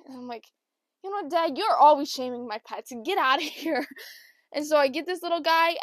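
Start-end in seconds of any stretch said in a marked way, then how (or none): 1.0-3.9 mock scolding. Scolds dad for shaming pets.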